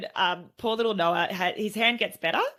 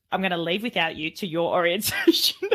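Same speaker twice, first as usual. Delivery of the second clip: mock parental threat breaking into laughter; threaten, then crack up on the last word; laughing retold threat. Mum telling child she'll leave without him, laughing mock threat.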